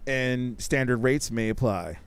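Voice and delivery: low, soft mock disclaimer read; a lightly voiced fine-print announcer. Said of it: "we read the fine print".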